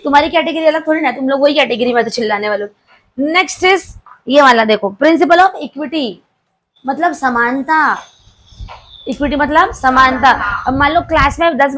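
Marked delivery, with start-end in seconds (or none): 5.0-6.1 very slow, word by word, for notes; slow dictation. Shown as a demonstration. Teacher dictating to the class, slow word by word. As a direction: spell it out slowly so the class can write. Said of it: "teacher dictating principle".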